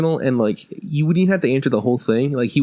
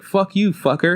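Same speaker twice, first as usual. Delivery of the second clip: higher-pitched mock cussing kid; cute kid voice; 7 semitones higher, slower than usual. Little alien kid cussing out the player, cute high voice. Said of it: "this really cute voice".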